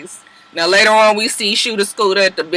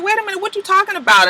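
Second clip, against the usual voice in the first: high fast Tokyo voice; 10 semitones higher, faster than usual. Retold or imitated. Tokyo quoted in argument.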